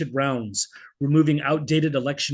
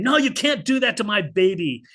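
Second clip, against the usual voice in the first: imagined scream; 7 semitones higher than usual. Retold or imitated. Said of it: "my impulse is to scream".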